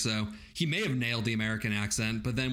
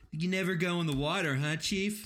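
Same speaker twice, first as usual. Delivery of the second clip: mock Harry; 6 semitones higher than usual. Quoting Harry to the chief.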